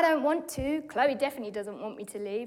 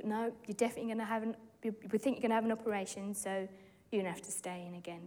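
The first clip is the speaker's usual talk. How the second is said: rushed doctor; 2 semitones lower, 6 dB quieter, much faster than usual. Retold or imitated. Doctors voiced, fast.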